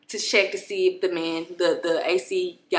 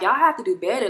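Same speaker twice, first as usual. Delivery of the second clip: re-enacted firm complaint, voice not raised; controlled, matter-of-fact reproach; firm, not yelling; 2 semitones higher, faster than usual. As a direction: tell them off without yelling. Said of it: "I wasn't yelling".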